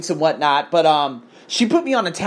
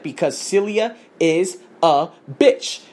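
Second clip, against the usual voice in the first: slow, deadpan curse; blunt slow verdict; slower than usual. Retold or imitated. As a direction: spell it out flatly.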